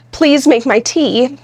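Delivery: slow, pleading request; slow please-first ask. Shown as a demonstration. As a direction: beg a little with the please first. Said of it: "kind of pleading with me".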